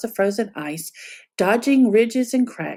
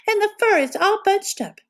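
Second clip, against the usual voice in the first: higher, lightly huffy mother bear; huffy Mama Bear; 11 semitones higher than usual. A narrator's reading. Mama Bear annoyed about her bunched boots, mild huff. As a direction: complain like the fussy mother bear. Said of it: "she huffed".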